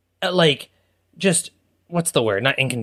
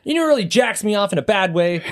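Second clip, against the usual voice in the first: laughing; 3 semitones higher than usual. Real, not acted. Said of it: "laughing through new phrase".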